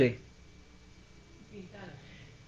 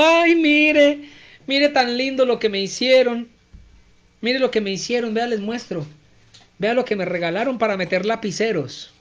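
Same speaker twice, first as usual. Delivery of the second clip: gushing delight; 3 semitones higher than usual. Acted. Teacher acting out showing off her gift, gushing. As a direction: show it off like a thrilled child.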